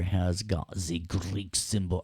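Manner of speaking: badly faked Greek accent; attempted Greek accent. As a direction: try and fail at a Greek accent. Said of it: "how to do a Greek accent".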